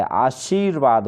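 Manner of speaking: आशीर्वाद slow, with a long ई and र joined onto व; correct form आशीर्वाद. Shown as a demonstration. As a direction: spell it out slowly: आ-शीर्-वाद. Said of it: "ई की मात्रा आएगी और वो पे र उड़ेगा". (धीरे, सही उच्चारण आशीर्वाद)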